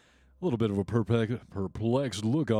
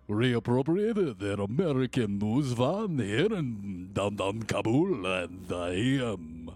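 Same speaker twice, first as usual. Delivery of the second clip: Harry Shearer newsman impression. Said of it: "I cannot do it justice".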